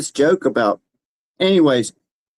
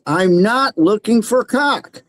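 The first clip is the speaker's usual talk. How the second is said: slow, emphatic "I'm not looking for cock"; slow exasperated denial; slow and insistent; 6 semitones higher, much slower than usual. Retold or imitated. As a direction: spell it out slowly in disbelief. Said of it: "I said".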